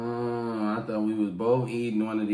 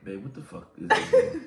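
disgusted shock; 4 semitones higher, 5 dB louder than usual. Real, not acted. Reacting to the stink bug taste.

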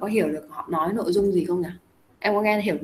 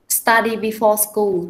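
slow key phrase; 4 dB louder, much slower than usual. Shown as a demonstration. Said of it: "cụm từ khác ở đây đó là".

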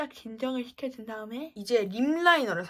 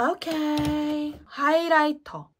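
drawn out; 6 semitones higher, 6 dB louder, much slower than usual. Real, not acted. Drawn-out announcing.

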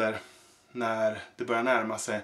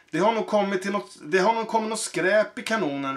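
higher, fast, eager call; 6 semitones higher, faster than usual. Acted. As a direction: shout a quick tip across the ring. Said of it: "ropade smeden".

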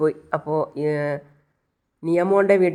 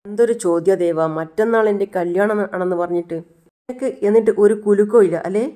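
louder, rising indignation; indignant; 3 semitones higher, 3 dB louder than usual. Acted. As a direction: press him hard, hurt and annoyed. Girlfriend upset at Devan.

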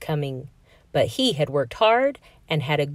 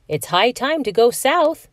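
higher, louder call across the lawn; 7 semitones higher, 4 dB louder than usual. Acted. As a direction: call it out to the robin. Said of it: "he called".

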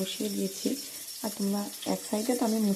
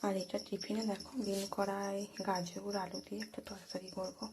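hushed voice; 5 dB quieter than usual. Real, not acted. Cook showing ingredients while the family sleeps, hushed voice. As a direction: keep the voice down while showing the food. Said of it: "ভয়েসটা একটু আস্তে আস্তেই দিচ্ছি".

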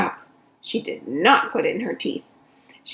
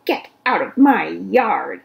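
loud, slow angry yell; angry shout; 6 dB louder than usual. Acted. Eugenia shouting at the pig through the window, loud. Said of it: "she shouted at Mercy".

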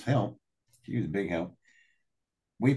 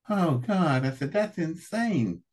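retold shock; 9 semitones higher, slower than usual. Retold shock at nuclear plan.

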